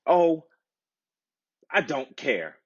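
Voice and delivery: put-on a spoiled girl brushing him off; snapping princess. A narrator's reading. Princess snaps at the frog, impatient and high. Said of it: "the princess snapped".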